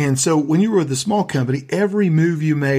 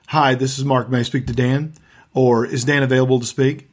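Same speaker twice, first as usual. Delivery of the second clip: authoritarian tone. Shown as a demonstration. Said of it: "a very authoritarian tone that says".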